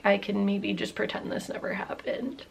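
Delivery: soft conspiratorial whisper; whispered hope. Real, not acted. Hoping to hide the slip, a guilty whisper. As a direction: whisper it like a secret.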